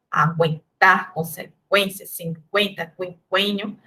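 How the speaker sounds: word-by-word list, "aguentar", "consequência", "cinquenta", "quinquênio", each U voiced as W; pronounced U. Shown as a demonstration. Teacher showing the U survives, voicing it in "aguentar", "consequência", "cinquenta", "quinquênio". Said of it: "continua pronunciando esse U".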